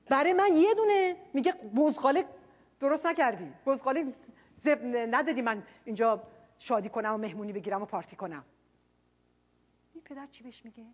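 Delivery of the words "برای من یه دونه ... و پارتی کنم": louder resentful complaint to the father; the older brother protesting to his father, loud and resentful; aggrieved elder son. Retold or imitated. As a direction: list every sacrifice, bitter and hurt. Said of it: "به پدره میگه".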